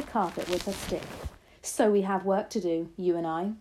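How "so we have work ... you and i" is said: louder, determined grandmother; rally him to action; grandma calling the boy to action; crying out. Acted. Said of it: "she cried out".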